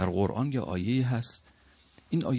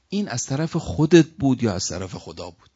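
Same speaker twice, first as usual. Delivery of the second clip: louder, emphatic retold challenge; challenging question; 3 semitones higher, 6 dB louder than usual. Man confronting the Prophet about Ali's appointment, challenging. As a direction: put it as a pointed demand.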